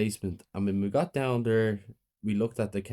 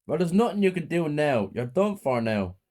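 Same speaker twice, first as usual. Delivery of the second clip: menacing; 6 semitones higher, 4 dB louder than usual. A narrator's reading. Mother threatening the teacher with a gun, gloating. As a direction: gloat over her.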